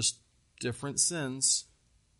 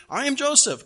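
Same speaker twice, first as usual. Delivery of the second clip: higher, louder re-enacted proclamation; dramatic reveal; 10 semitones higher, 7 dB louder, faster than usual. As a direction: announce it like a stunning revelation. Preacher re-enacts Joseph's dramatic reveal.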